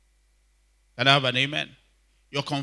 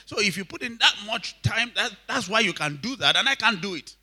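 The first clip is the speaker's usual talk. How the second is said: high-pitched imitation of a retort; retold animated reply; 8 semitones higher than usual. Preacher retelling a brother's answer to a pastor, animated imitation. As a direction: explain it back, pitched well up.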